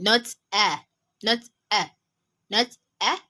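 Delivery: "a" short and light, without the throat squeeze; a quick open "a" as the sound to avoid; ordinary short a. Shown as a demonstration. Teacher warning of a common mistake, short "a". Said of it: "which is pronounced as a".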